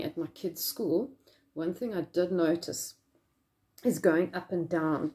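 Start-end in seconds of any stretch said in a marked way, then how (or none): 3.8-5.1 muffled behind mask; through a face mask. Real, not acted. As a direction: mask pulled down mid-sentence. Seen 3: Mask covers mouth and nose, then pulled down to chin at 1.6s.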